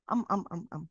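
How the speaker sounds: a string of hesitant ums; demo filler ums. Shown as a demonstration. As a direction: show the habit of saying um. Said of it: "Maraming um".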